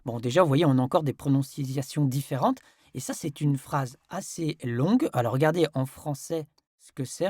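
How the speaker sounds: ordinary delivery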